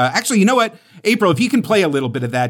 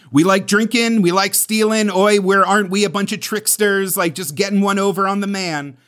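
mock underdog trickster, pitched up and held high; higher, sing-out voice of scrappy tricksters; cheeky underdog; 4 semitones higher than usual. Podcaster sums up Maori comedy as tricksters, cheeky underdog. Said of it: "this, like, very underdog".

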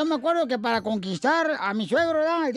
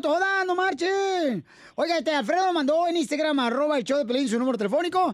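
Chela Prieto voice. Acted. Still voicing Chela Prieto.

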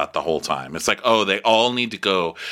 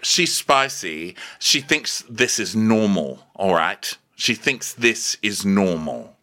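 imitating Stanbury; slower than usual. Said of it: "And Stanbury's like".

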